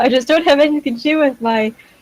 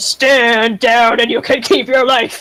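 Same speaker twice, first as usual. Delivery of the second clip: menacing, terrifying, intimidating delivery. A player's character tries to menace the lead bandit, giving a terrifying shout. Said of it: "I'll shout in a very terrifying voice".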